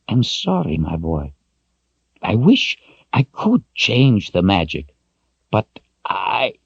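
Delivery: a hint of the old wizard, sorry and gentle; lightly voiced old wizard, rueful. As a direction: soften it for the boy. Zed apologises.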